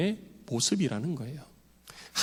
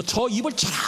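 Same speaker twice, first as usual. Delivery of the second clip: raised, sharper voice giving an order; mock angry command; 5 semitones higher than usual. High priest orders Paul struck, mock angry command. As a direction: bark the order to strike him, half-acted. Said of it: "대제사장이 그 말을 듣고 화가 난 거예요".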